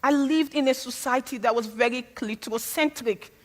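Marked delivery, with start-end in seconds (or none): 3.2-3.3 loud, climbing to a high comic cry; mock outrage. Real, not acted. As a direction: build the outrage into a squeal.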